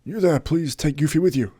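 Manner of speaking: hammed-up Shatner delivery; William Shatner impression. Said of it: "turning to William Shatner there".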